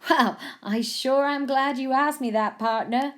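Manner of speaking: hammed-up American cowboy; best cowboy voice. A narrator's reading. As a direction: play the cowboy with a Wild West twang. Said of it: "in his best cowboy voice".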